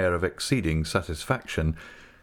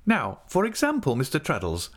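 higher pitch, weighty opening; profound air; 7 semitones higher than usual. A narrator's reading. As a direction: put the question as if deeply considered. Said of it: "assuming a profound air".

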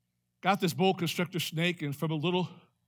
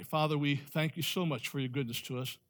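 earnest pastoral prayer voice; closing prayer. Acted. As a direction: pray humbly over the congregation.

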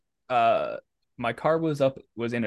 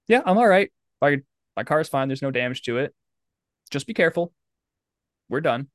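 higher, brisk lady voice; other driver's voice; 4 semitones higher, faster than usual. Retold or imitated. Other driver dismissing the crash, higher and brisk. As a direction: mimic the curt other driver. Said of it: "She goes".

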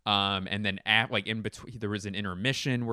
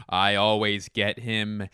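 slow, pleased-with-himself gloat; drawn-out boast; 4 dB louder, slower than usual. Acted. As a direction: stretch it a little, savoring the win. Repeats his boast, then stretches it out.

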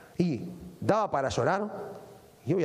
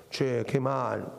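slow, drawn-out mock sigh of pity; mock lament; 5 semitones lower, much slower than usual. Preacher mocking the crowd's short-lived grief, slow mock lament. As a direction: sigh it out like a fake mourner. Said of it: "se quedaron diciendo".

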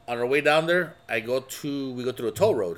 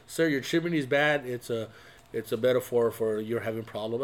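mock psychologist contractor; 3 semitones lower than usual. To the homeowner, a contractor diagnosing his chimney, mock-therapist tone. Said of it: "You're like".

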